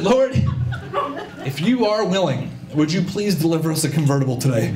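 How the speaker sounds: earnest mock plea to the Lord; mock prayer. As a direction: pray it formally, measured and pleading. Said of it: "the first day that I ever prayed".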